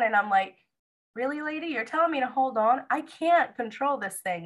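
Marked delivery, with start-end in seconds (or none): 1.1-4.4 much higher, incredulous; exasperated disbelief. Retold or imitated. To the nurse who says hold on, incredulous and exasperated. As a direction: push back in disbelief.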